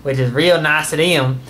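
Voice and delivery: Uncle Jim Bob voice. Acted. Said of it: "my Uncle Jim Bob".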